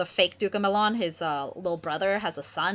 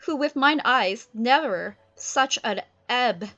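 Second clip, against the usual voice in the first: Ferdinand's voice; 6 semitones higher, 4 dB louder than usual. Acted. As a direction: lament his father grandly. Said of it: "Ferdinand's like".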